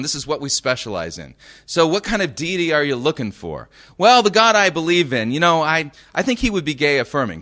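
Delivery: lightly voiced sales chat; mock eager salesman selling a custom god; shop clerk and customer. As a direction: play up a chirpy clerk taking an order. Acts out Build-A-God shop dialogue.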